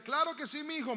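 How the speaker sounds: kindly shopkeeper. Retold or imitated. Shopkeeper in a good mood answering the boy, kindly. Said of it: "a veces estaba contento".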